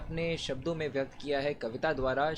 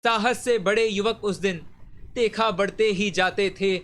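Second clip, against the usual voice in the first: measured, declaimed patriotic verse; stirring poem recitation; 3 dB louder than usual. Acted. Reciter delivers Vyas's poem on Subhash's call for blood, stirring declamation. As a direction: recite it like a rousing heroic poem.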